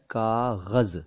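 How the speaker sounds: कागज़ said slowly as "kaa-ghaz"; plain k, then throaty gh and buzzing z in कागज़; dotted g and z. Shown as a demonstration. Teacher showing what the dots make, कागज़ as kaa-ghaz. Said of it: "ग के नीचे है और ज के नीचे है".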